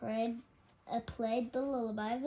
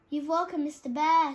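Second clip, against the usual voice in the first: alarmed; 5 semitones higher, 10 dB louder than usual. Acted. Rabbits alarmed.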